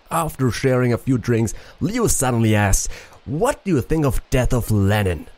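put-on rough French accent, reading aloud; attempted French accent. Player reading a letter about Leo's room, attempted French accent. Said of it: "French accent".

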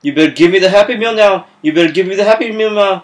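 fast, insistent demand; mildly hammed-up pissed-off customer; getting mad. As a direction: rattle off an angry demand. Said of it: "I'm getting mad".

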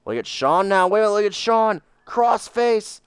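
excited play-by-play call; wrestling commentator. Acted. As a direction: call the match like a ringside announcer. Plays wrestling commentator over game.

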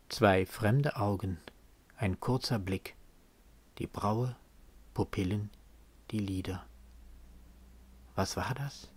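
soft, low poetry reading with long pauses; hushed poem recitation. Acted. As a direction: let each fragment fade into silence. Recites the poem's closing refrain.

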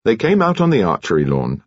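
ordinary delivery

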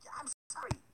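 high whispered sob of sorry; crying. A narrator's reading. Trapped baker woman cries to Hansel. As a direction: plead through tears. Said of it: "she cried".

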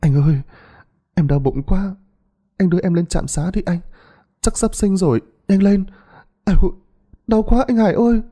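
high, strained pleas through pain; a wife in labour begging her husband to hurry; pained high cries to her husband; moaning in labour pain. Acted. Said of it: "cô Duyên kêu đau bụng".

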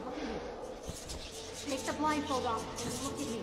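low, hollow coaxing voice; eerie mimic voice. The creature lures the blindfolded children, low and hollow. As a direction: lure the children like a false mother.

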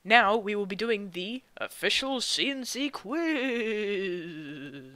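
spooky voice. Acted. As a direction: announce the quiz like a ghost story. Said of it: "What do you do in that spooky voice?".

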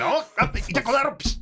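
high mock yelps and a slap noise; self-made fight sound effects. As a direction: act out a scuffle like a radio play. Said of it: "全部効果音自分たちで".

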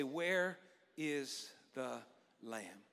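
quiet congregational echo; soft call-and-response. Shown as a demonstration. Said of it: "Will you say that with me today".

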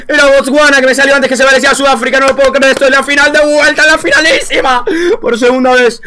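loud frustrated disbelief; exasperated outcry. Real, not acted. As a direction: cry out at the missed answer. Realizes wrong guess, disbelief.

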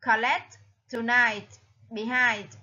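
Collect, tonight, behind, each stressed on its last syllable; second-syllable stress. Shown as a demonstration. Teacher contrasts word stress, Collect, tonight, behind stressed on the second syllable. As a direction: lean on LECT, NIGHT and HIND. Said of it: "là nhấn ở âm số hai".

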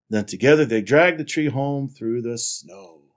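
animated picture-book reading; story narration. A narrator's reading. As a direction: read it out to children with lively emphasis. Reads picture book aloud.

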